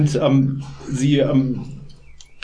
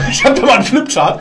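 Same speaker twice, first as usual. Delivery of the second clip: laughing; 9 semitones higher, 5 dB louder, faster than usual. Real, not acted. Laughing along with the joke.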